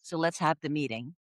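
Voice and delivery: understated, let's-get-on-with-it delivery; down-to-earth European. Retold or imitated. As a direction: imitate a no-nonsense European, unimpressed. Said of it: "we tend to be more down to earth".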